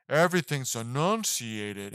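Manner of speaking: mild mock robotic, every word spelled out; robotic enunciation. Reviewer mimics the actress's enunciated accent, a touch robotic. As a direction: slowly clip out each word like a robot. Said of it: "makes her sound very robotic".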